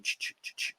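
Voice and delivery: whispered ch-ch-ch like a counter rolling; ticking dial noise. Retold or imitated. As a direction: click it out like a spinning number dial. Mimics dial ticking over.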